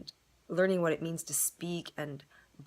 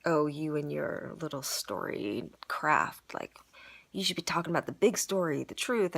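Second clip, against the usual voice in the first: mock condescending. Student imitating how the teachers heard them, mock condescending. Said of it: "They felt like I was being condescending".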